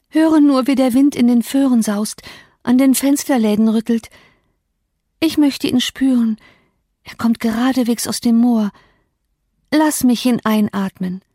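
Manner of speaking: a sick woman who aches for the moor wind; yearning Catherine. Acted. Catherine urges Nelly to hear the wind, yearning.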